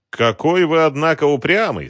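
reproachful. A narrator's reading. Visitor reproaches the stubborn shopkeeper, disapproving. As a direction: chide him for his stubbornness. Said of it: "с нотками осуждения в голосе".

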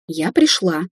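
mildly angry start; cross. A narrator's reading. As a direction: begin the account in a huff. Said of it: "сердито начала Дина". (сердито, но сдержанно)

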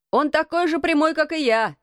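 put-on high-pitched boy's exclamation; exclaiming. A narrator's reading. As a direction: proclaim it, voice lifted high. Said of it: "воскликнул Дикон".

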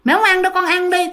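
a lightly voiced ghost turning down food; eerie ghost mother. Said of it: "Bả mới trả lời nó".

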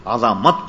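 عظمت in three syllables, "a-za-mat"; correct pronunciation. Shown as a demonstration. Cleric concluding his ruling, عظمت to be read as "azamat". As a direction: give the ظ of عظمت a short a. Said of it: "یہ مفتوح ہے".

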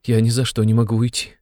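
high, pleading mother's voice; near despair. A narrator's reading. Mother refuses to leave her son, near despair. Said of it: "шептала она Разумихину чуть не в отчаянии".

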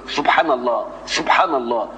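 lisped "سبحان" with S softened towards TH; imitated lisp. Parodying a lisping prophet reading to his people, lisped. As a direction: say "سبحان الله" like someone with a lisp. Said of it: "سيدنا موسى كان ألدغ".

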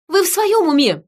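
high, loud incredulous demand; outraged bellow. A narrator's reading. Woman doubting Gregory's sanity, bellowing. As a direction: demand it as if they've gone mad. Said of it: "гаркнула я в ответ".

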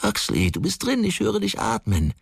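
betrunkener Schrei. A narrator's reading. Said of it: "schrie die betrunkene Stimme".

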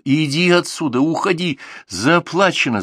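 high, loud angry shout. A narrator's reading. He drives her away in anger, loud high shouting. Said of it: "закричал".

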